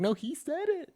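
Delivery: very high squeaky mock voice; panicked excuse. Pretending to dodge blame from an MMA fighter, very high squeak. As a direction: squeak out the blame like a scared kid. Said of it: "It's like".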